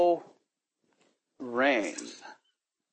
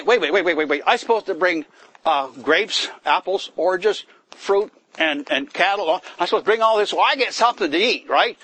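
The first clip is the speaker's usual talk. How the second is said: a touch of hammed-up protest, louder; protesting objection; 2 semitones higher, 4 dB louder than usual. Employer objecting to bringing laborers, mild mock protest. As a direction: object like a stingy employer asked to share. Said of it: "We say".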